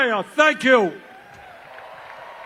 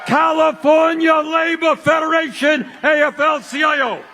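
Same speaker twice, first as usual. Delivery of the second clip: shouting; 2 semitones higher than usual. Real, not acted. Rally roll call of unions.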